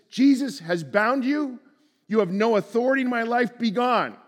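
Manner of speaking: stern exorcist's order; commanding rebuke. Pretend. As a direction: cast it out with authority. Commanding demons to leave.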